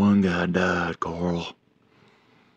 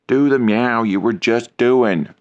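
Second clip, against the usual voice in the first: pushy, louder nagging; loud demand; 3 semitones higher, 6 dB louder than usual. Real, not acted. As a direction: insist loudly on the meow. Badgering cat to meow.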